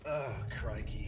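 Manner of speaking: slow, lightly Australian crikey; a hint of Australian outback; Australian accent, slowed down; mock Australian accent. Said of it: "Crocodile Dundee".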